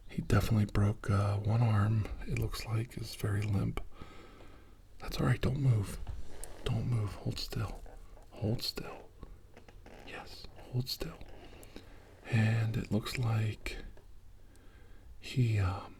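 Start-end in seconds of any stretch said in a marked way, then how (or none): 5.0-11.2 hushed, soothing reassurance; softly calm an injured patient, keep them still. Acted. Soothing an injured crash survivor.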